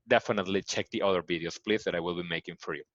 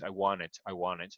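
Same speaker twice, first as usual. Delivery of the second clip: American soft D; 3 semitones lower, 6 dB quieter than usual. Shown as a demonstration. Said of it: "the D now in American is".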